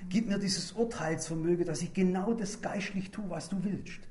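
soft, hushed plea to God, slowing and fading; humble prayer. Pretend. Preacher voicing his own daily prayer, soft and humble. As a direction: pray it quietly, almost to yourself. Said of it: "Heute sage ich".

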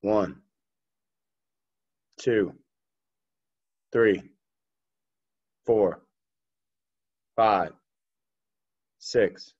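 steady, measured rep count; counting workout reps. Real, not acted. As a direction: call each rep out evenly like a coach. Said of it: "I'll count 'em out for you".

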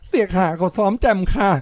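high, pleading cry for help. Acted. Jaem running to Khiam to say she is being beaten, panicked cry. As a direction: rush in begging for rescue. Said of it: "พร้อมร้อง".

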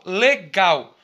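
"legal" slowly split, with weight on the final "gal"; stress on GAL. Shown as a demonstration. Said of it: "O gal aí foi a sílaba tônica". ("legal" com a sílaba "gal" tônica)

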